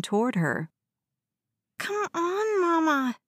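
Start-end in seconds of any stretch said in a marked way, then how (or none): 1.8-3.2 put-on very high, whiny child's plea; begging little boy. A narrator's reading. West clings to his mother, high whining plea. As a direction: plead tearfully as a small boy.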